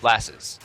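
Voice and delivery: "Lasses" said like the word lasses, LASS-iz; deadpan "Lasses" as LASS-iz, not laissez; mock pronunciation. Shown as a demonstration. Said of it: "It's pronounced lasses".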